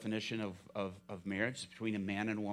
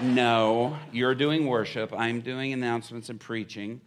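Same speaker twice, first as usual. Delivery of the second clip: insisting; 10 dB louder than usual. Retold or imitated. Panicked insisting to worship pastor.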